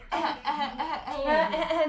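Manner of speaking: short mock sobs; playful fake crying; imitated baby crying. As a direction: imitate a fussy baby's staccato cry. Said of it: "diye ağlıyor ya".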